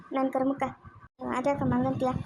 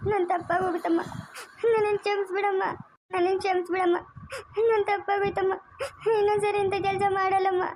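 begging through sobs, pitched up; tearful pleading; 4 semitones higher than usual. Acted. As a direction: plead for forgiveness, crying. Woman begging forgiveness, weeping. (ಅಳುತ್ತಾ ಕ್ಷಮೆ ಬೇಡುವುದು)

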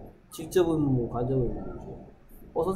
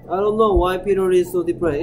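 louder, slow and deliberate English sentence; slow reading; 3 semitones higher, 5 dB louder, much slower than usual. Shown as a demonstration. Teacher reading the combined sentence aloud to students, slow and loud. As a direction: say each word slowly for the class. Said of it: "slow model reading".

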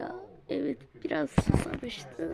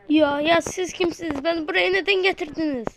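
panicked question; 3 semitones higher, 4 dB louder than usual. Acted. Kidnapped victim wakes up.

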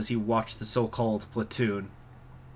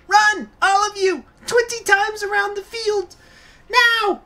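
Katyusha voice; 8 dB louder than usual. Acted.

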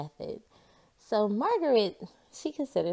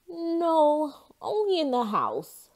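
put-on higher, louder boy's voice; Jasper's voice; 9 semitones higher, 5 dB louder, slower than usual. A narrator's reading. Jasper answering Margaret in a higher boy's voice. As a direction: answer bright and high as a kid. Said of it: "Jasper answering".

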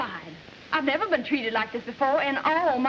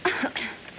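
fake cough; 4 semitones lower, 5 dB quieter than usual. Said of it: "develop a severe case of laryngitis".

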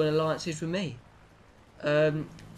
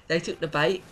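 laughing; 3 semitones higher than usual. Real, not acted. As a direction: laugh through the words.

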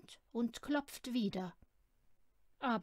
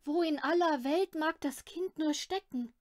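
alarmed mother; 5 semitones higher, 6 dB louder than usual. Acted. Mother alarmed, child missing.

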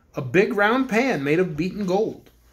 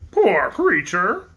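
pitying mutter; 4 dB louder, much slower than usual. Acted. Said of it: "muttered the king pityingly".

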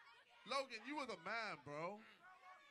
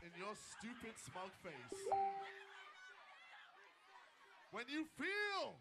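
megalomaniac rant. Acted. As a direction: gloat like a comic book villain. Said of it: "You sound like a super villain".

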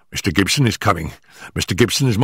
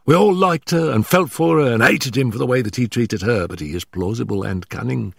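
high, hurried, stammering nervous man; gasping, out of breath; 9 semitones higher than usual. Acted. Nervous manager warning Holmes before his employer arrives, gasping and hurried. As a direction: blurt it out in short frightened bursts. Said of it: "our visitor gasped".

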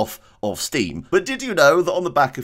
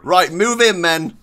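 commanding; 6 semitones higher, 6 dB louder than usual. Pretend. Commanding troops in game.

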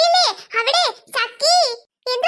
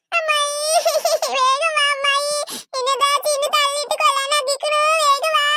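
tearful calling. Acted. Hurt child calls aunt for help.

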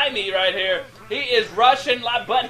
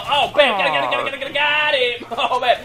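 high, rapid-fire repeated shouts; excited kill call; 4 semitones higher, 3 dB louder than usual. Real, not acted. Commentator seeing the team finally get a kill, excited shouting. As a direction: explode as the kill finally lands. Calling a last-second kill.

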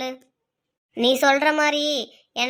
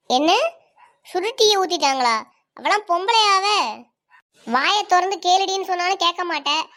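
outraged; 3 semitones higher, 3 dB louder than usual. Acted. Friend outraged at stepmother's abuse.

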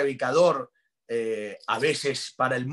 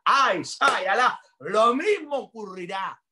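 high, loud preacher's exclamation; fervent outburst; 7 semitones higher, 3 dB louder than usual. Real, not acted. Preacher promises viewers the same miracle, fervent outburst. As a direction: burst out high and loud, then proclaim.

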